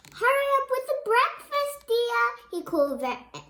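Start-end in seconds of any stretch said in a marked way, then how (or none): 0.1-2.2 high, loud demanding call; loud impatient husband; bossy husband calling. Acted. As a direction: bark the order at his wife. Mr Piggot demanding breakfast.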